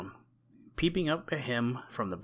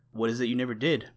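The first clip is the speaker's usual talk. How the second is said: a hint of a squeaky little mouse pressing on; lightly squeaky mouse; 4 dB louder, faster than usual. Danny the mouse pressing Blacky for an answer, lightly squeaky. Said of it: "persisted Danny in a squeaky voice".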